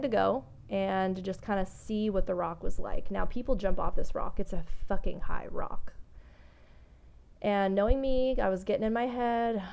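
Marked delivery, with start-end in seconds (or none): 4.4-5.9 unvoiced, swearing under her breath; whispered aside. Real, not acted. Vlogger whispering to viewers about the huge rock. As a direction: breathe the curse out.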